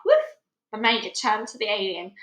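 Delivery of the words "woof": dog bark. Acted.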